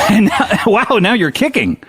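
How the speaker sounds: laughing through the words; amused laughing commentary. Real, not acted. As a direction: giggle while describing the kicks.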